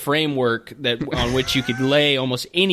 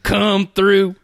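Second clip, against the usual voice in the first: cowboy voice; 4 semitones higher than usual. Acted. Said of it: "in this cowboy voice".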